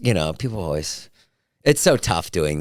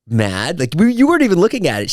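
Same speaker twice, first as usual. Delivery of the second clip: higher, incredulous teasing questions; mock-incredulous retold prodding; teasing challenge; 4 semitones higher than usual. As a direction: needle your partner about being mad. Teasing fiancee in a retold exchange.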